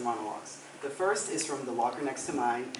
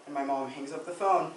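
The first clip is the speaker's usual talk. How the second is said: subdued dramatic monologue. Acted. Student confessing missed coach's funeral, subdued monologue. Performs a rueful first monologue.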